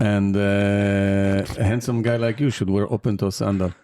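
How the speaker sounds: put-on light Israeli accent as an AI. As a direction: give advice in a mild Israeli accent. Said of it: "you have a good Israeli accent".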